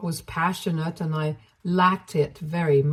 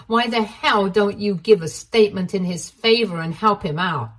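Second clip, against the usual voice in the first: angry. Acted. Ashley attacks Sandra.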